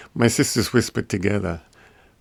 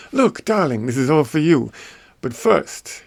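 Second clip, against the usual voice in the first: higher-pitched, lightly voiced coaxing sister; 5 semitones higher than usual. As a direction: tempt him sweetly, pitched up. Sister coaxing brother with treats.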